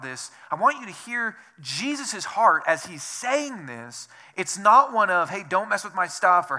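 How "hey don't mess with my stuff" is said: bossy scolding. Pretend. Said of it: "negative connotations".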